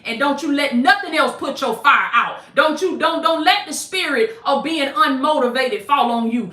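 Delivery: fired-up, emphatic prophetic preaching. Real, not acted. Preacher declaring a word over struggling believers, fired-up preaching. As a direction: preach it with punch, lifting the key phrases.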